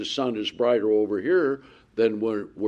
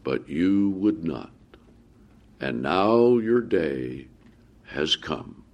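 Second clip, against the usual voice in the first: Jesus lamenting; 3 semitones higher than usual. Acted. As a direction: mourn over the city, then let it sink. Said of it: "he says".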